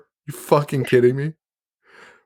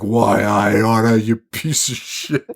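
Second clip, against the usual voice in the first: slow, put-on gangster growl, lightly done; imitating a cartoon heavy threatening someone; a hint of a mock movie thug; old-timey tough guy; slower than usual. Duke quoted in a retold movie scene.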